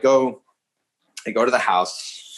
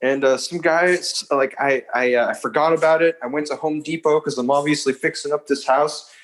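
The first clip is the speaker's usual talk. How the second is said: higher-pitched flustered stammering fib; nervous liar; 3 semitones higher than usual. Retold or imitated. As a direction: stumble through a made-up story, mildly panicky. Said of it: "I'm, like, breathing heavily".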